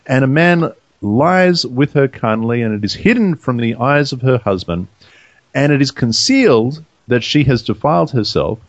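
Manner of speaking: measured, formal Bible reading; scripture reading. Real, not acted. Reader gives the law of jealousy to co-hosts, measured scripture reading. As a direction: read the verses out deliberately, pausing between phrases.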